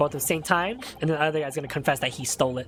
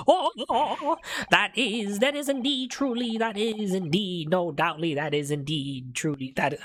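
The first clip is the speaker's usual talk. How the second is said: put-on excited old man; 5 semitones higher than usual. Witness excited over the coin.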